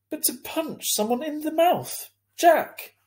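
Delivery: high, loud mom voice, scolding. A narrator's reading. Mother scolding son for punching Julian, loud and high. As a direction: raise your voice at your son in disbelief. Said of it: "raising her voice".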